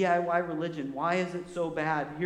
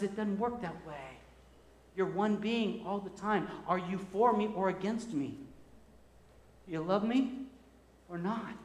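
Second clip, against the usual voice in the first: God's gentle reply; 7 dB quieter than usual. Acted. God answers the divided heart.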